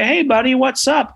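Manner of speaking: high-pitched, breezy dad greeting; cheery dad. Retold or imitated. Comic-book dad greets his son round the corner, cheery high voice. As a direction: imitate an easygoing father, pitched well up.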